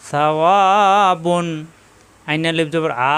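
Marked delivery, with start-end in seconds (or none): 0.1-1.5 short "সা", long held "অ", closing "বুন"; one-alif madd. Shown as a demonstration. Teacher demonstrates madd, drawn-out "অ" inside the word. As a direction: stretch only the "অ" before "বুন". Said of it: "এখানে অ এক আলিফ টান".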